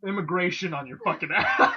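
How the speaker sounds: threatening mom. Retold or imitated. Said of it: "when she wants to be threatening".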